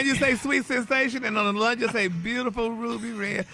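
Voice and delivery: high, loud nail salon lady voice; hammed-up nail lady imitation. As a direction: mimic the nail lady's sales pitch. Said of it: "what the nail lady said".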